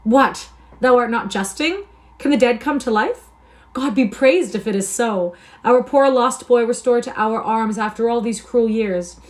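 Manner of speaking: loud, high, amazed outcry; feigned joyful surprise. Acted. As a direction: play the overwhelmed brother to the hilt. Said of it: "he exclaimed".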